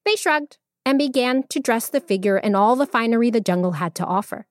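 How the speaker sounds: expressive storyteller reading; measured, animated storytelling; story narration. A narrator's reading. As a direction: read it like a tale for children.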